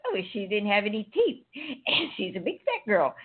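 giggling. Retold or imitated. Mean wish retold, giggling.

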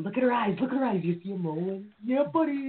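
high hyped-up commentary; peanut gallery. Retold or imitated. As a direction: egg him on from the sidelines.

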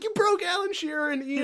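high-pitched, through laughter; can barely get it out for laughing. Real, not acted. Disbelieving laughter at fan meltdown.

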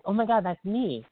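high, excited starstruck cry; light up with delight; excited gasp. Retold or imitated. Fan hearing her own name read on air, thrilled.

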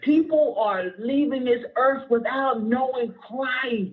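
emotional, pleading preacher; close to tears. Real, not acted. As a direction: preach it on the verge of crying. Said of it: "I'm getting ready to cry".

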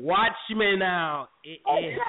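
slow, drawn-out mock bouncer warning; imitating Fluffy. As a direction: drag out "Watch me now" like a club bouncer. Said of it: "that's what Fluffy say when you walk in the club".

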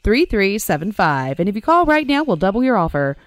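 loud hard-sell pitch voice; infomercial. Acted. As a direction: sell it like a late-night ad. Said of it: "mock infomercial pitch".

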